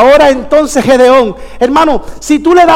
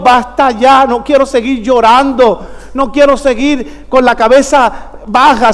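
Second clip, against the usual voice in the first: slow, pleading prayer to God; earnest prayer; slower than usual. Acted. A weary believer pleading with God, slow and sincere.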